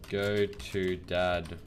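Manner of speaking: slow, drawn-out words; slow typing voice. Real, not acted. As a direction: say it slowly while typing it. Reading out a typed command.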